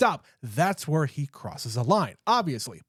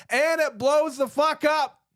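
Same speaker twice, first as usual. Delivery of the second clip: excited; 9 semitones higher than usual. Real, not acted. To his co-host, thrilled as the truck blows up. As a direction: voice jumps up high, drawn out slow.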